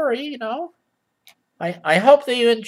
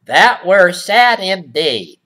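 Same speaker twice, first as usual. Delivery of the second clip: mock old-fashioned; 4 dB louder, slower than usual. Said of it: "Who talks like that?".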